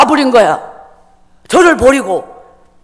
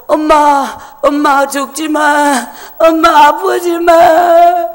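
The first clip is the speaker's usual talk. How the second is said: put-on slow, begging little girl; pleading child; 2 semitones higher, much slower than usual. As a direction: beg her mother not to die. Frightened child pleading with mother. (느리게 애원하는 어린아이 목소리)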